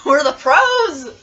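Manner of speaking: loud, drawn-out victory shout; triumphant cheer. Real, not acted. Celebrating a correct guess.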